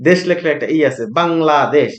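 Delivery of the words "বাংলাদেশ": বাংলাদেশ in three small beats, bang-la-desh; syllable by syllable. Shown as a demonstration. Teacher recapping the vowels in each syllable, বাংলাদেশ lightly split bang-la-desh. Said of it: "syllable হচ্ছে তিনটা".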